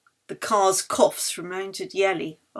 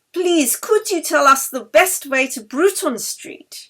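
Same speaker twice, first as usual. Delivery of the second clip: loud, slow, higher polite question; raised over traffic; 7 semitones higher, 6 dB louder than usual. Acted. Yeli asks the bus conductor over traffic noise, loud and polite. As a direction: call it over the engine noise. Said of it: "against the noise of the traffic".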